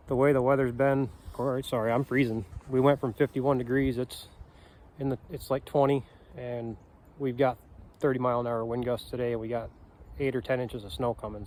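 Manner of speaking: trembling, cold voice; shivering. Real, not acted. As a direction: speak through the chattering cold. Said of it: "So I'm shaking like crazy".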